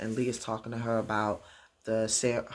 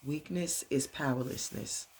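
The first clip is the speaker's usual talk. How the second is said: put-on softer, slightly raised child echo; little girl repeating; 3 semitones higher, 4 dB quieter than usual. Little girl repeats father's lesson, softer child voice. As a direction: echo it quietly as a small daughter. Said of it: "little Leah repeats it".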